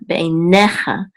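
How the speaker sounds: be einecha with the accent on NE; stress on NE. Shown as a demonstration. Teacher repeating the Hebrew word, stress on NE in be einecha. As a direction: lean on NE in be einecha. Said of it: "the accent is on ne".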